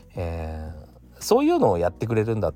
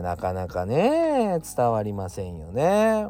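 なかなか伝わりませんよね said slowly and drawn out; slower than usual. Shown as a demonstration. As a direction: stretch out 伝わりませんよね slowly. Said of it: "なかなか伝わりませんよねっていうか". (ゆっくり引き伸ばして)

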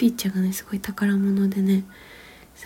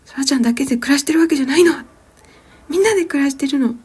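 raised firm voice from the belly; loud scolding; 6 semitones higher, 7 dB louder than usual. Retold or imitated. Mother retelling how she scolded her daughter, raised firm voice. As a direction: scold her clearly and loudly. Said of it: "大きい声でね、".

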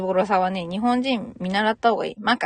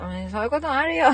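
high, forgiving country-lad voice; good-natured reassurance, pitched up; easygoing country guy; 4 semitones higher than usual. Retold or imitated. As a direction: imitate a kindly coworker shrugging it off. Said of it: "田舎の気のいいあんちゃんみたいなね".

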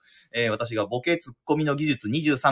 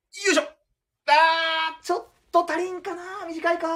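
golfer falling short; slower than usual. Pretend. Acted short approach shot.

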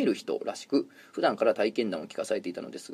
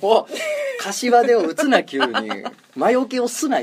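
laughing protest; 10 semitones higher, 5 dB louder, slower than usual. Real, not acted.

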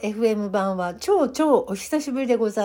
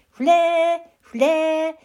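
loud cheering call, raised pitch; cheerleader; 5 semitones higher, 3 dB louder than usual. Shown as a demonstration. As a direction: shout it like a cheer squad. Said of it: "フレーフレーみたいな感じでやってみたいと思います". (応援団風の力強い掛け声)

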